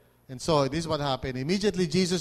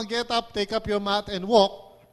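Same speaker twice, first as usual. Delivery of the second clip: commanding quote; 2 semitones higher, 3 dB louder, slower than usual. Acted. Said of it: "Pag sinabi mo naman".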